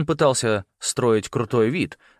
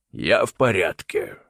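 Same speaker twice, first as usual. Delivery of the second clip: lightly voiced uncle, calm; 4 dB louder, slower than usual. A narrator's reading. Uncle Malcolm voice.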